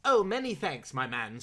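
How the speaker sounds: breezy and grand, a touch lordly; airy voice. Acted. Traveller thanking the porter, mildly airy. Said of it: "in a most airy voice".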